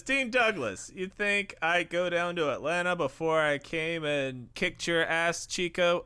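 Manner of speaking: put-on Razor Ramon Cuban accent. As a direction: taunt him in a Cuban accent. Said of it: "his Razor Ramon impression".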